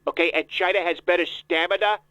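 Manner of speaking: put-on voice of a self-important politician; Donald Trump voice. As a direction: interrupt like a pompous candidate. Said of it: "Mister Trump".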